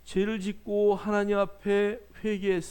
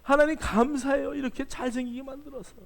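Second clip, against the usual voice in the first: gushing thanks; 5 semitones higher than usual. Retold or imitated. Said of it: "정말 너무 잘생겼다".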